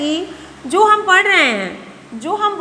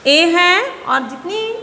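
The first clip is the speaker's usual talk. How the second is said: usual speaking voice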